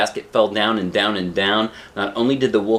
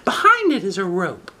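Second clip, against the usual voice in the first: whisper; 11 semitones higher than usual. Acted. Shang whispers the secret.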